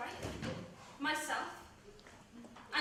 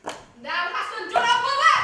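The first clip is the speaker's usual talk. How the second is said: much louder and higher, leaning on mother; horrified accusation; 5 semitones higher, 12 dB louder than usual. Acted. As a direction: cry it out in shock. Nurse accuses Aaron in horror.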